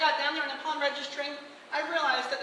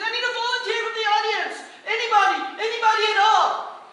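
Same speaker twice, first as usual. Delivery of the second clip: loud, high emcee call to the crowd; booming showman call; 8 semitones higher, 8 dB louder than usual. Retold or imitated. Performer calling the crowd for a volunteer, booming. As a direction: sell it like a stage host.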